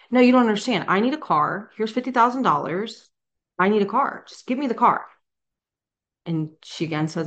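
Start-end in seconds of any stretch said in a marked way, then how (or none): 0.1-5.1 higher, pushy pleading customer; exasperated insisting. Retold or imitated. Customer demanding a car from the Walmart clerk, exasperated. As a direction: insist like you can't be refused.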